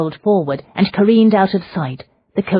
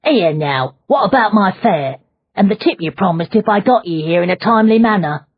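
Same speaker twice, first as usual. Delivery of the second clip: loud, higher coachman hollering after his fare; coachman yelling; 5 semitones higher, 5 dB louder than usual. A narrator's reading. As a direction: yell at the passenger for your money. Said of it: "while yelling at the passenger".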